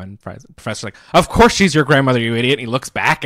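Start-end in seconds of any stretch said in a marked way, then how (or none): 1.1-2.5 loud, raised mock telling-off; exasperated scolding. Professor sets Fry straight about grandmother, loud mock scolding. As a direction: scold him with hammed-up exasperation.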